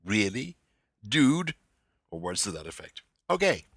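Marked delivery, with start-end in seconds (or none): 0.0-1.5 mock incredulity. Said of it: "your indignant gasps of incredulity".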